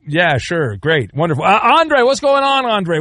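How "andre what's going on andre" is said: cheery greeting. Real, not acted. Host greets caller on air.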